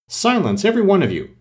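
quell the shouting daisies; commanding cry. A narrator's reading. Tiger Lily silencing the daisies, a high commanding cry. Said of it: "cried the Tiger Lily".

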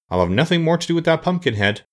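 high-pitched indignant refusal; vicious. A narrator's reading. Sawhorse refuses Jack's company, mildly vicious. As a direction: declare it with mild venom. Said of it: "declared the sawhorse viciously".

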